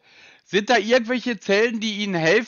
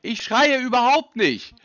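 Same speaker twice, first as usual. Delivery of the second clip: higher, indignant denial; raised voice; 4 semitones higher than usual. Real, not acted. Customer accused of yelling denies it, raised voice. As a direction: protest with the voice raised, short of shouting.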